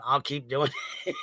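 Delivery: words breaking into real giggles; cracking up. Real, not acted. Streamer amused by her own running bit, breaking up laughing. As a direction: start talking, then dissolve into laughter. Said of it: "crack myself up".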